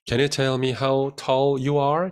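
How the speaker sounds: very slow, clear model sentence; slow model read. Shown as a demonstration. Teacher reads the sentence slowly to the class. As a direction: read it out slowly for students to repeat. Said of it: "확인해 볼 수 있겠죠".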